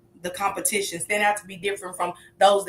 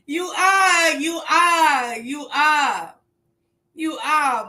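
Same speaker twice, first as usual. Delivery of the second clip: loud, higher, preacher-like cry; fervent shout; 5 semitones higher, 5 dB louder, much slower than usual. Real, not acted. Hyping the chat like a preacher, loud and high. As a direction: call it out like church testimony.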